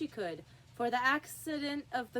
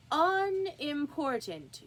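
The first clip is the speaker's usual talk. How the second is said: slow, drawn-out unimportant, raised and louder; respectful correction; 6 semitones higher, 5 dB louder, much slower than usual. A narrator's reading. White Rabbit correcting the king, slow and pointed. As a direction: lean hard on unimportant as a polite hint. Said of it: "in a very respectful tone".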